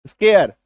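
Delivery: स्केयर said as scare with a light final r; English word with r. Shown as a demonstration. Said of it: "एक आर की मात्रा".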